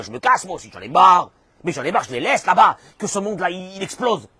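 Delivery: loud acted exasperation; fed-up outburst. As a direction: burst out as if quitting for good. Acts out God fed up. (ras-le-bol joué, lancé fort)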